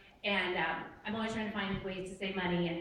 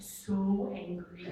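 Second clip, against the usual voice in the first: laughing; 4 semitones lower, 4 dB quieter, much slower than usual. Retold or imitated. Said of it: "I'm like".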